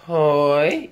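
"Hoi" dipping then rising like a question; question-mark tone. Shown as a demonstration. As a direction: curl "Hoi" up at the end. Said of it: "following the question mark".

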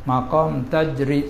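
slow, deliberate maqam tajri; teacher naming the Sufi term, slow. Shown as a demonstration. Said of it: "Tak sama dengan tajri".

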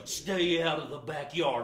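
gruff hound-dog warning between barks; lightly voiced guard dog ordering everyone off; worked-up guard dog. Hound dog warning visitors away from his yard, worked up.

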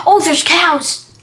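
slow, drawn-out excited call; excited discovery. Real, not acted. Player exploring other cubes, excited call. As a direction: call out a happy find. Spots cows while exploring.

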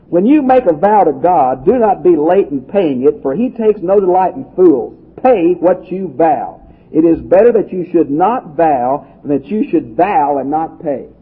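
measured, emphatic Bible reading; scripture reading. Acted. Preacher reading God's law to the congregation, emphatic scripture reading. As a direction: read the verse out with deliberate weight.

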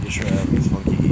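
"Israel needs funky E" called out loud at normal pace; just call "Israel needs funky E" across the room; quick loud call-out. Real, not acted. Repeating the missing spelling.

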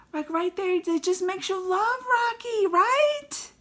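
high, breaking, teary voice; moved to tears. Real, not acted. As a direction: let the voice crack with emotion.

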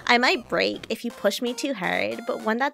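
lightly voiced Valley Girl streamer; Valley Girl accent. Streamer voices K-Angel to P-chan, light Valley Girl accent. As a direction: read it with a touch of Valley Girl. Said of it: "I'm gonna do the Valley Girl accent just for her".

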